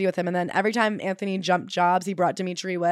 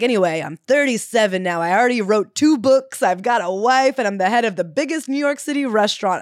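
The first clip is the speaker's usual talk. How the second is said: breezy author imitation; 4 dB louder than usual. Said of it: "he's like".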